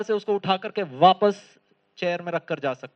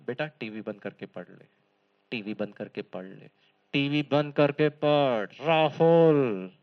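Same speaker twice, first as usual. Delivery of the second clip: mother nagging; 6 semitones lower than usual. Retold or imitated. Mother repeatedly tells her son to switch off the TV. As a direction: repeat the order with growing firmness. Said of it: "mummy ने भी कहा था".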